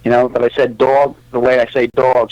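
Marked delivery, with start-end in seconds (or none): 0.8-1.2 New York accent. Shown as a demonstration. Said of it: "I had a New York accent".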